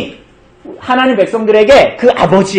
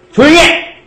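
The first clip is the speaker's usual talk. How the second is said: mock stern shout; 6 semitones higher than usual. Shown as a demonstration. Pastor acts out hushing two noisy boys, mock stern shout. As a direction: play the strict pastor silencing two kids. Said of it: "이렇게 해가지고".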